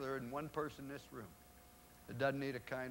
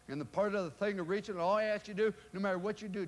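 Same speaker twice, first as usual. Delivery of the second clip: louder and higher, pressing the point; preacher-style build; rising rally; 6 semitones higher, 7 dB louder than usual. Real, not acted. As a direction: drive it home to the crowd.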